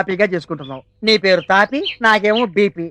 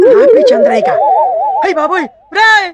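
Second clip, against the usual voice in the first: shrieked much higher and louder; panicked yell; 11 semitones higher, 4 dB louder than usual. Acted. Boss realises the worker will tell Chandrayya, panicked yell. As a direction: cry out the name as the threat hits. Name sinks in, panicked outburst.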